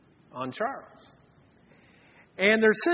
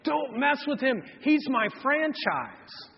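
mock yell; 6 semitones higher, slower than usual. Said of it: "the mom comes out on the court and yells".

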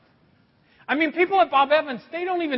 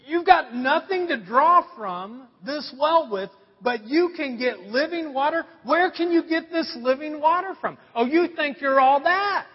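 mock sassy challenge, emphatic; woman with attitude; 4 semitones higher than usual. Woman at the well challenging Jesus, mock attitude. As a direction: imitate someone with an edge, scoffing. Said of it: "she kinda has this attitude".

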